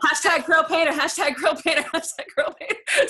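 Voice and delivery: high, bright sales-pitch chant; mock infomercial hype. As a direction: chant it like a cheesy ad slogan. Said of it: "I sound like an infomercial now".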